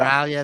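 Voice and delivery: "Australia" with its first A dropped; clipped Australian pronunciation. Shown as a demonstration. Showing how Aussies shorten their country's name, "Australia" without the A. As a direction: say "Australia" as 'Straya, swallowing the A. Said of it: "abolished the letter A".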